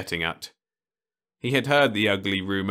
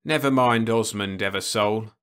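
grinning; 3 semitones higher, 4 dB louder than usual. Acted. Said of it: "uncles grinned".

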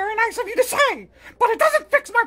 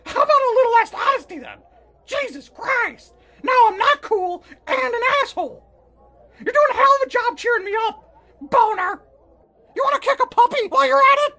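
angry rant; 3 dB louder, faster than usual. Acted. Angry at friend's blunt honesty.

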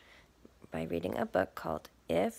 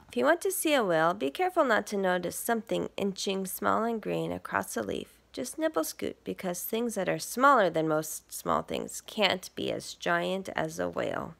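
lively picture-book read; reading to children; 4 dB louder than usual. Acted. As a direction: read it to little listeners. Reads picture book aloud.

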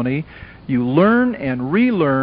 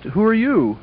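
mildly surprised, higher-pitched question; 5 semitones higher than usual. Retold or imitated. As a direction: retell a startled question with a small lift.

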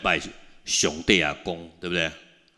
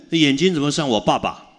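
startled realization; 6 semitones higher, 4 dB louder than usual. Retold or imitated. Son sees his father's eyes.

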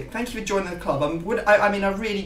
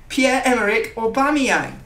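hyped announcement; 6 semitones higher, 5 dB louder than usual. Real, not acted. Announcing the featured player.

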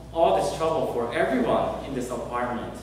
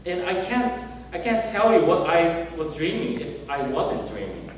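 a desperate, pleading denial, voice jumping higher; panicked husband insisting he wasn't dreaming; 4 semitones higher than usual. Retold or imitated. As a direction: beg him to believe you. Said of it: "desperately said".

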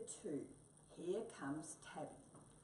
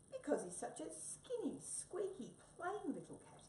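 high, squeaky little mouse; small mouse voice; 12 semitones higher than usual. Acted. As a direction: voice a tiny eager mouse. Mouse character voice.

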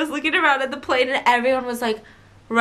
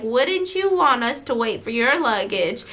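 a light imitation of a thick southern accent. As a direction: play the pilot with a mild southern accent. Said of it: "like, the most southern accent".

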